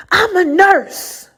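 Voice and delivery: breathy mock whisper, slow and drawn out; mock the caller in a slow whisper. Mocking the other woman's claim on the phone, in a slow breathy whisper. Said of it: "I was just like".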